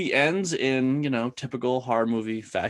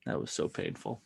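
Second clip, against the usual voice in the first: laughing; 12 semitones lower, 10 dB quieter than usual. Real, not acted. Laughing at the painful scene.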